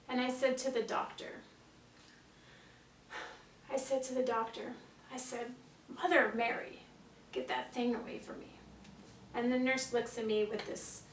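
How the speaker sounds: understated acted storytelling with long pauses; dramatic monologue. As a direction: tell it as an audition monologue, pausing between phrases.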